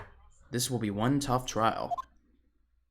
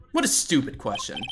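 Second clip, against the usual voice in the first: Godot voice. Shown as a demonstration. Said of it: "what kind of voice would he have?".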